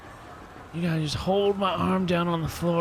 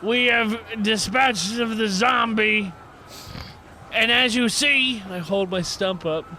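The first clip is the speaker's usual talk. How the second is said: public address shout; 3 semitones higher than usual. Acted. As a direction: shout to the whole train. Addresses the train passengers.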